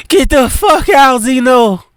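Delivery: high, raging; angry order. Acted. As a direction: order him out. Wife throws Zeno out.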